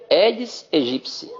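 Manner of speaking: "Aedes aegypti" drawn out slowly with "-gypsi" at the end; correct pronunciation, slow. Shown as a demonstration. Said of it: "Então, a, é". (pronúncia correta, lenta: "Aedes aegypti")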